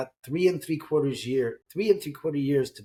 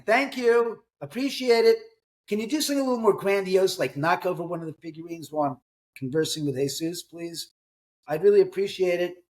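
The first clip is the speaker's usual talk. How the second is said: higher-pitched, playful plea to unseen company; mock-polite request; 5 semitones higher than usual. Host talking to the spirits mid-show, mock-polite. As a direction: put on exaggerated courtesy, pitched up.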